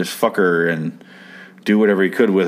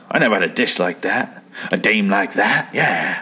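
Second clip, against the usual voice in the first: creepy man. Retold or imitated. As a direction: imitate a creepy guy savoring it. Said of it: "he's fucking creepy".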